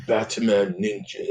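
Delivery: slow, mock Japanese accent on "Batman Ninja"; playful put-on Japanese accent; bad Japanese accent. Shown as a demonstration. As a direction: say "Batman Ninja" drawn out in a bad Japanese accent, "pat-a-man nin-zha". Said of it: "my bad, bad accent".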